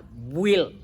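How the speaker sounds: "build" said as bild, the u silent; "build" read as bild with no u sound; English pronunciation. Shown as a demonstration. Scene: teacher showing his class how to say build. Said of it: "U-nya jangan dibaca".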